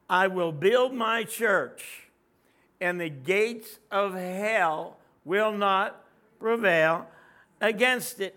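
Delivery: slow, loud Jesus quote; solemn declaration. Retold or imitated. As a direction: proclaim it slowly and strongly. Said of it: "when he said".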